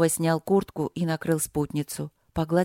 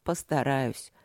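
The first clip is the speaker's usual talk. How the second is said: low and softer, soothing; reassuring; 4 semitones lower, 4 dB quieter, slower than usual. Acted. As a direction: soothe her quietly. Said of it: "сказал он успокаивающе".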